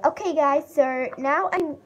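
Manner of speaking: put-on a quick try at an American accent; mock American accent. YouTuber to viewers, trying a mock American accent. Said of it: "I will be talking in an American accent".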